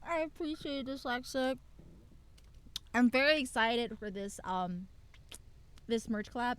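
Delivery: talking around a lollipop; words round a candy in the mouth. Real, not acted. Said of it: "I have, like, a lollipop rolling in my mouth".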